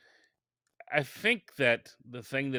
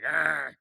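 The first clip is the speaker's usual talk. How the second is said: higher, drawn-out "argh" of frustration; mock angry growl; 6 semitones higher, 4 dB louder than usual. Podcaster retelling being turned down by a guest, mock frustrated growl. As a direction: imitate a ticked-off growl. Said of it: "I was mad. I was ticked off".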